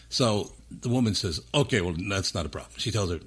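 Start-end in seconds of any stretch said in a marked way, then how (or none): 1.5-2.7 a slight attempt at an Indian accent; bad Indian accent. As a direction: lightly put on a clumsy Indian accent. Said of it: "That's my bad Indian accent".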